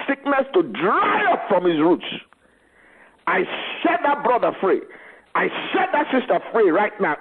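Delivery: commanding prayer. Acted. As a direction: command the sickness to leave.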